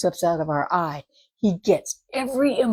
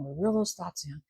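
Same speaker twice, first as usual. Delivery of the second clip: soft reassurance; 3 semitones lower, 4 dB quieter than usual. Retold or imitated. Calming declaration of trust.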